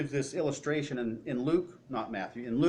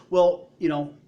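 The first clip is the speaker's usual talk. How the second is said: hoarder voice; 3 semitones higher, 3 dB louder than usual. Acted. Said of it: "people that are hoarding say".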